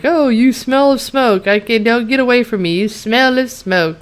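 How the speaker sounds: whiny retold protest, dragging the last words; bratty complaint. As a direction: imitate a petulant boyfriend recoiling from smoke. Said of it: "Aiden acts like a little twat".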